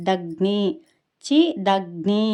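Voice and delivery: loud, deliberate దగ్ని with weight on గ్ని; light చి, then a heavily pressed దగ్ని; pressed conjunct. Shown as a demonstration. Teacher models the stressed conjunct for learners, emphatic దగ్ని. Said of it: "దాని ఒత్తి గ్ని అని పలకాలి".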